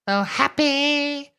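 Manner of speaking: drawn out with sarcasm, mocking the claim; sarcastic. Sarcastic echo of "happy.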